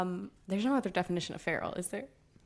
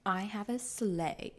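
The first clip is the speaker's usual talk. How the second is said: whispering. Pretend. Whispering a spoiler ASMR style.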